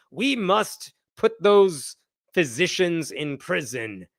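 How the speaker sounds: slow, lightly put-on British accent mocking them. Critics voiced in a mild mock British accent. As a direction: drawl it out in a hammed-up British accent. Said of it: "they always say it with a friggin' British accent".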